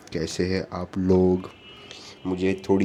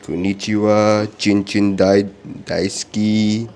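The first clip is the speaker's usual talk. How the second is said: mock Japanese; 2 semitones higher, 6 dB louder than usual. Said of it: "I know some Japanese as well".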